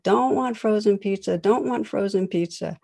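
lightly voiced whining four-year-old; upset child. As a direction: son repeats his refusal, getting upset. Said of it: "He gets increasingly upset".

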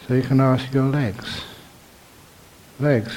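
measured meditation teacher, long pauses between phrases; guided meditation. Real, not acted. Teacher guiding meditators into awareness of the body, measured and unhurried. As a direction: guide them gently, phrase by phrase, leaving silences.

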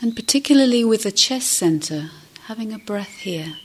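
gentle meditation guidance with long pauses; guided meditation. Acted. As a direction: guide listeners gently inward, leaving space between phrases.

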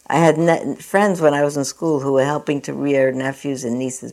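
a steady reading voice for an essay; reading aloud. Acted. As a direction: read someone else's story plainly, with care. Reads a magazine essay aloud.

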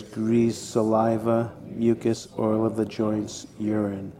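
measured, evenly spaced list recitation; recitation out loud. Shown as a demonstration. Teacher leading a repetition of body parts, reciting out loud. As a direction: recite each item as a steady, repeated drill. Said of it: "let's repeat these parts out loud".

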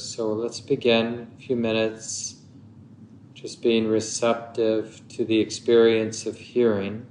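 unhurried meditation guidance with long pauses; measured meditation teacher, phrase by phrase; guided meditation. Acted. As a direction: guide listeners gently into stillness, leaving long silences.

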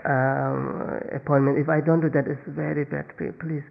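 pleading, put-on excuse; lying excuse. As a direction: plead apologetically with a made-up excuse. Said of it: "you start to lie".

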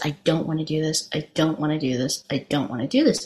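lightly acted reluctant panic under the breath; fearful. Husband doubled over before the jump, retold in fear. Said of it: "doubled over in fear and he says".

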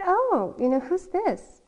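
put-on high, bright asking voice pitched for a little girl; a light, playful auntie asking a toddler; sing-song question to a child. Aunt asks child about drawing.

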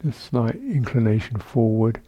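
calm, measured meditation guidance with long pauses; guided meditation. Real, not acted. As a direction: guide sitters gently through the body, leaving space between phrases. Leads a seated body-awareness meditation.

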